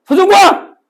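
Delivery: calling his own full name into a dark alley. Shown as a demonstration. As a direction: shout the full name into the empty street. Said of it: "풀네임으로 불러야 돼".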